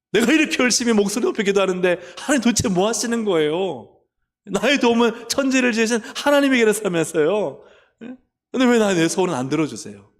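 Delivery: loud, indignant pleading; loud demanding prayer. Acted. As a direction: raise the voice high and loud at God. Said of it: "막 큰 목소리 내고".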